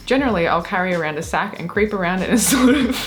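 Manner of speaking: trying to read, then cracking; giggling. Real, not acted. Retrying the goblin confession, giggling. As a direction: hold it in until laughter breaks through. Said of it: "if we keep giggling".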